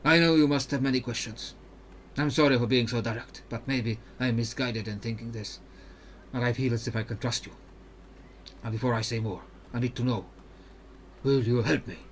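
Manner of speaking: put-on polite, even-toned Ionian accent; Mirim, Ionian accent. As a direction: make a careful request in an Ionian accent. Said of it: "when I'm doing an accent".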